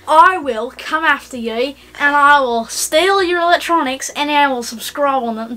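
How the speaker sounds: put-on light Australian accent; lightly put-on Australian voice; down under voice. Partner threatening viewers on request, light Australian accent. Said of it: "Your down under voice".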